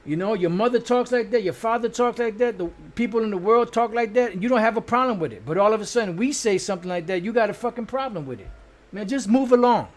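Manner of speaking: heated rant. Real, not acted. Preacher scolds viewers over swearing, heated and loud. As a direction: hammer home the hypocrisy.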